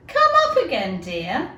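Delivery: imagined people calling her back up; coaxing call down the hole. Retold or imitated. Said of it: "putting their heads down a hole and saying".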